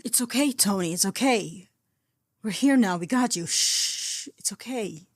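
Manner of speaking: put-on calm him like a frightened child; calmest voice. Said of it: "in the calmest voice he possessed".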